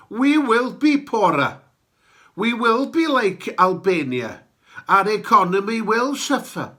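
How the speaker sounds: put-on sonorous North Walian accent, building up; rolling North Wales accent, rising to proclamation. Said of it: "in my sonorous North Walian accent".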